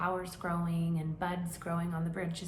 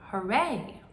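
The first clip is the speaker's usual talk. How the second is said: cheering; 5 dB louder than usual. Acted. Mouse cheers.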